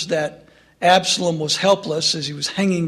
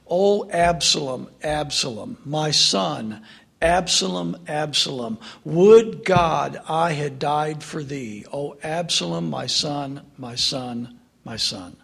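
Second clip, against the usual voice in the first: grieving cry; 3 semitones lower than usual. Acted. David on his knees mourning his dead son, grieving lament. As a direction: mourn the son, voice sinking away. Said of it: "And this is what he says".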